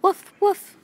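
loud high yapping little dog; dog barking. A narrator's reading. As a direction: bark loudly at the squirrel. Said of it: "Fifi was barking at a squirrel".

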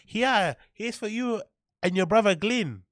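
put-on a jokey stab at an Asian mum's accent; mock Asian mum accent. Mocking the mum feeding her son, in a rough Asian accent. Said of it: "I can't do the accent".

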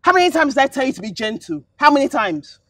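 loud, fast angry tirade; madam scolding the cleaner; furious scolding. Acted. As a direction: scold her harshly.

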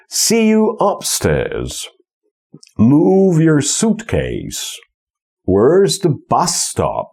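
slow, exaggerated strong-weak-strong-weak beat; alternating stress pattern. Shown as a demonstration. Teacher modelling a rhythm pattern, alternating stress. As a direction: stretch the strong syllables, drop the weak ones. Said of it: "to jest akcentowana, nieakcentowana, akcentowana".

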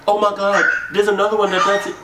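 fast, loud, high-pitched excitement; mock amazement. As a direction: blurt out his discovery, high and rushed. Acting out baby's amazed discovery.

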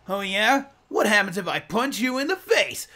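high, loud cocky comeback; brash hero. Retold or imitated. Hero mocking the villain before charging, high and loud. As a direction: fire it back with cheeky bravado.

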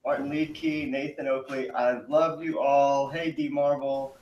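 far from the mic; distant laptop microphone sound. Real, not acted. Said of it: "You sound a bit far away from the mic".

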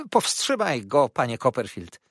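loud, high cry of alarm; Uriah. Acted. Uriah begs Copperfield to restrain the old man, crying out. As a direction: call out urgently for him to be restrained. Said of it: "zawołał Uriah".

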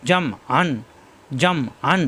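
"আন" squeezed in the throat after "জম"; pressed throat ain. Shown as a demonstration. Teacher demonstrates ain, "আন" squeezed from the throat. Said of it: "আ কণ্ঠনালীতে চাপ দিয়ে".

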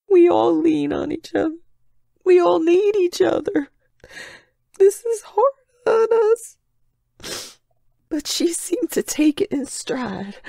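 grieving. Acted. Mourning a lost friend.

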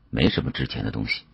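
plain reading voice

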